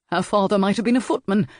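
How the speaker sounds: fast, sneering outburst; an aristocrat railing quickly at a mismatch. Acted. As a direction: spit it out fast in contempt. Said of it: "Lord Stokedale railed".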